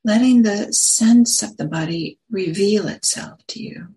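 unhurried phrases with long pauses between them; guided meditation. Acted. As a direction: guide listeners gently into the body, leaving space after each phrase.

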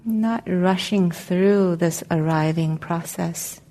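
calm, unhurried meditation guidance with long pauses; guided meditation. Real, not acted. Meditation teacher helping the group settle into their seats, calm guided meditation. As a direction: guide them gently into arriving, leaving space between phrases.

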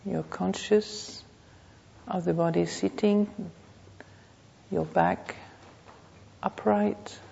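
measured meditation voice with long pauses; guided meditation. Real, not acted. Teacher leading a class to notice the body, guided meditation. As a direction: guide them unhurriedly, phrase by phrase.

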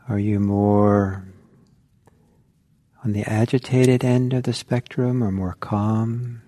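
unhurried meditation guidance with long pauses; guided meditation. Real, not acted. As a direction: guide listeners inward, leaving silence between phrases.

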